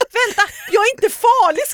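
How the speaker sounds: very high, shrill, loud screaming. Retelling shouting after a woman who ran off, retelling a scream.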